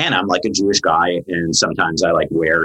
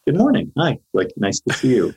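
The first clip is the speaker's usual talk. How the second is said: cheery greeting; 6 semitones higher than usual. Retold or imitated. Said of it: "looked him in the eye and was like".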